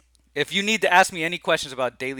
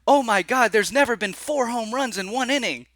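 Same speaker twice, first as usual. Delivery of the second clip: excited announcer; 9 semitones higher than usual. Retold or imitated. Retelling the broadcast to viewers, imitating a shocked announcer. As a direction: belt it like a stunned play-by-play man. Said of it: "The announcer like".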